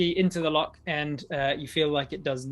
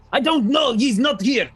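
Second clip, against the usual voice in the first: much higher, loud dim jailer; whiny jailer; 9 semitones higher, 11 dB louder, slower than usual. Acted. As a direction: wail it out like a panicked dim guard. Jailer panics to guards.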